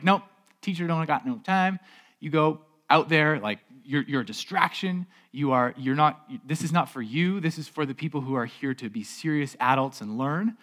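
lightly acted brusque brush-off; dismissive disciples. Disciples turning children away from Jesus, mildly dismissive. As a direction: shoo them away, mildly officious.

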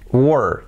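"were" as one falling "wur"; correct were. Shown as a demonstration. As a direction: say "were" with no e, just W and R. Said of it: "así". ("were" sin e, una sílaba descendente)

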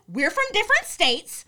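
high, loud put-on white girl protest. Locked out by the dorm mother, white girl voice. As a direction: plead indignantly in a white girl voice. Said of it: "I got my white girl voice".

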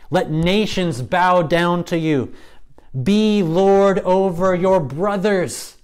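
slow, high, ringing proclamation; solemn blessing. Acted. Old father blessing his son, slow and high. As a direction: pronounce it like a dying patriarch's blessing.

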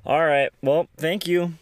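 high, loud sign-off; cheery goodbye. Real, not acted. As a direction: wave them off brightly.

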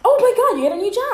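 high, loud delighted squeal; excited. Real, not acted. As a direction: burst out thrilled at the news. Friend hears news.

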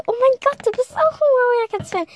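viel höher, aufgeregt entzückt; begeisterter Fan. Retold or imitated. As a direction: quietsch vor Freude über den anderen Fan. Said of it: "Die so". (hoch und begeistert quietschend)

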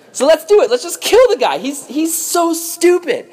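high, worked-up brotherly scheming; eager plotting. Acted. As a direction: egg the others on. Brothers acted plotting murder.

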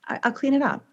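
acting out an unruffled parent; calm reply.

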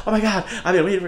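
a hint of desperate eagerness; mock eager. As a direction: pretend to be overeager on a date. Imagined eager first meeting.

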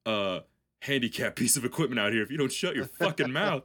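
a touch of faked menace; mock threat. Imagined threat to rule guy.

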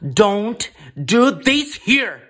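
hammed-up horror-movie ghost; mock ghost voice. Shown as a demonstration. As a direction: drag it out in a put-on spooky voice. Copying the clip's ghostly voice.

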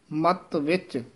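ਮਤ ਵਿੱਚ then a halt; ਮਤ ਵਿੱਚ, pause; pause after ਮਤ ਵਿੱਚ. Shown as a demonstration. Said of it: "ਇੱਥੇ ਠਮਕ ਹੈ".

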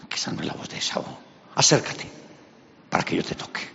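put-on whispered doubting old man; hushed and wary; suspicious old Isaac.

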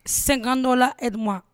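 loud mock pleading for money; mock plea for fifty dollars; begging fan quote. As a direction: ham up a needy beggar. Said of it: "Bref, on m'a dit".

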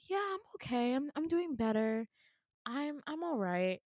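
high, soft put-on cheer; fake cheerful. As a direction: sound fine while hiding it. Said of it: "But out loud".

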